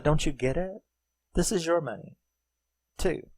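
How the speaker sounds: imitated earnest plea. Voicing her pleading explanation.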